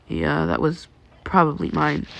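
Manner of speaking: flat, neutral, soft monotone. Acted. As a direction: say it with no feeling. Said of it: "his monotonous words".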